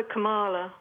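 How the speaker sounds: Kamala said as kuh-MAH-luh; chosen pronunciation. Shown as a demonstration. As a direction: stress the middle syllable of Kamala. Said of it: "So I call her".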